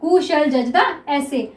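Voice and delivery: slow, drawn-out words; slow repeat. Shown as a demonstration. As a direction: repeat the phrase slowly. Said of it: "ठीक है, क्या है".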